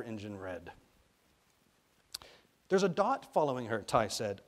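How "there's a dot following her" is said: put-on higher, louder eager child; excited boy. A narrator's reading. Ty at the spyglass reporting a dot, excited. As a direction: call out the sighting eagerly.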